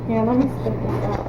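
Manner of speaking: talking around gum; words round a wad of gum; chewing gum. Real, not acted. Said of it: "you have gum in your mouth".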